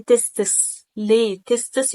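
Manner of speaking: تستس chopped in two with stress on the pieces; wrongly split word. Shown as a demonstration. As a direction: break up تستس and lean on it, as a mistake. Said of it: "يبقى أنت قسمت الكلمة". (نطق تستس مقسومة وعليها ضغط غلط)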